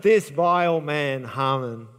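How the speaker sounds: slow, drawn-out mock-dramatic denouncing; dramatic accusation. Esther accusing Haman before the king, with mock drama. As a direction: play up the accusation, stretching each word. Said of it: "I'm sure with drama she goes".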